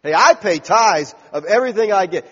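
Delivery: self-satisfied bragging prayer; bragging Pharisee. Acted. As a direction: puff yourself up before God. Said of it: "he's just bragging on himself".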